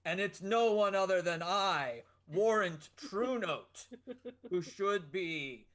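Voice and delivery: a buff minstrel, lightly voiced, swaggering; bold minstrel hero. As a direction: claim the blade proudly. Player voices Warrant Truenote.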